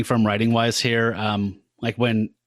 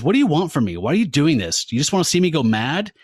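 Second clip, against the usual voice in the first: angry; 4 semitones higher than usual. Retold or imitated. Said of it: "gets increasingly angrier".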